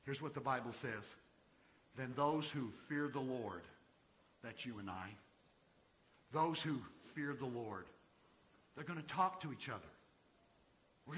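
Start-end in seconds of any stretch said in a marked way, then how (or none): 2.0-3.6 measured scripture reading; careful, phrase by phrase; slow reading. Real, not acted. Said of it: "I'm gonna read this slowly". 6.3-7.9 measured scripture reading; careful, phrase by phrase; slow reading. Real, not acted. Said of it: "I'm gonna read this slowly".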